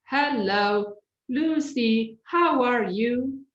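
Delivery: flat robotic reading. Shown as a demonstration. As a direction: read it like a robot, word by word. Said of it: "is to speak like a robot".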